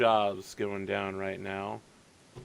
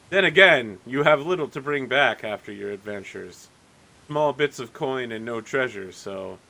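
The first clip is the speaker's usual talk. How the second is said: smug innkeeper; 6 dB louder than usual. Acted. Innkeeper mocking the poor adventurers, smug and loud. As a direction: talk down to them with a smug edge. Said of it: "looks at you again and says".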